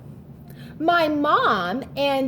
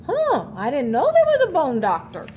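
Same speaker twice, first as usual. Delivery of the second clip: put-on quick surprised child's voice in her head; fast, lightly puzzled kid voice; thinking girl; 3 semitones higher, faster than usual. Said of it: "So she's thinking".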